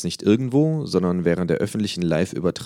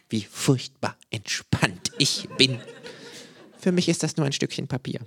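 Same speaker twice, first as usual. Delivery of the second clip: mock relaxed; 8 semitones higher, 3 dB quieter than usual. A narrator's reading. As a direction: draw it out, faking serenity. Kangaroo mocks calm while burning flag.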